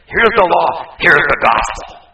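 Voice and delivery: loud, punchy preaching; preaching loudly. Real, not acted. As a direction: hammer each phrase home. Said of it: "preaching law and gospel together".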